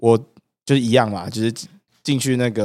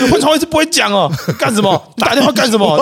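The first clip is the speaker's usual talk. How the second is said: much higher, louder chewing-out; mock scolding; 11 semitones higher, 3 dB louder than usual. Officers scold the recruit who called the hotline, mock furious. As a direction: tear into him like an angry sergeant, hammed-up.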